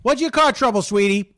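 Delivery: high-pitched, over-familiar host; hammy host sweet-talking a caller; car radio host. Acted. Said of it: "This is Click".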